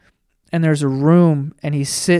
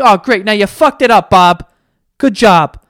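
sarcastic; 3 semitones higher, 5 dB louder than usual. Retold or imitated. Viewer mocking Bob's mistake.

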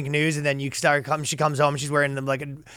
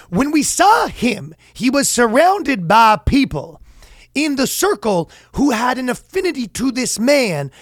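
black intellectual; 8 semitones higher, 3 dB louder than usual. Retold or imitated. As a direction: take forever to say the obvious. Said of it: "This is my one accent that I'm good at".

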